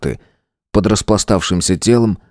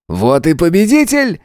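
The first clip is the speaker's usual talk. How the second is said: much higher, mocking triumphant exclaim; 9 semitones higher than usual. A narrator's reading. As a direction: announce the winner with cruel glee. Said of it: "воскликнул Свободин".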